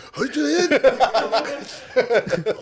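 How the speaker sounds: high imitated charging-up noise; hammed-up anime attack squeal; mock anime power-up cry. Host imitates two comics charging up, mock anime cry.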